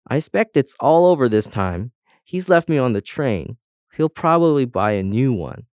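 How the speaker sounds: ordinary talk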